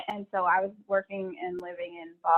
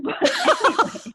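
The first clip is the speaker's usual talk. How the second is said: laughing; 14 semitones higher, 5 dB louder than usual. Real, not acted. Laughing at own story.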